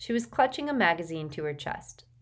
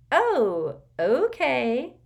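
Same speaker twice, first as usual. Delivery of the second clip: surprised; 8 semitones higher, 7 dB louder, much slower than usual. A narrator's reading. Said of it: "looking very surprised".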